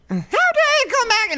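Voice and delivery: high, loud overdramatic line read; hammed-up accusing hero line, pitched high; trying the villain line. Shown as a demonstration. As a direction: deliver the hero line with mock grandeur. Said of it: "just the way, I'd be like".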